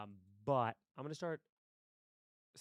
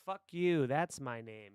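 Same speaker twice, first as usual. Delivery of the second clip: acted contempt; 5 dB louder than usual. Boss answering a salesman who asked his name, acted contempt. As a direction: throw the insult back as an answer.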